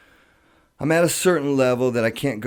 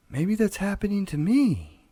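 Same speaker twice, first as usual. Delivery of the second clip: wife's words; 11 semitones higher than usual. Retold or imitated. Wife's fear retold in story.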